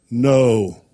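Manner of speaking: low, firm, commanding NO; real low no. Shown as a demonstration. Owner correcting a puppy, real low and firm. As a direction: drop NO down low and say it strongly. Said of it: "you get down real low".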